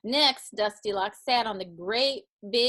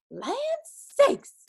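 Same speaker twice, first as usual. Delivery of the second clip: high, loud exclamation; startled mama bear; 5 dB louder than usual. A narrator's reading. Mama bear seeing the sleeper, startled exclamation. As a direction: exclaim it far higher, in shock. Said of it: "said the mama bear".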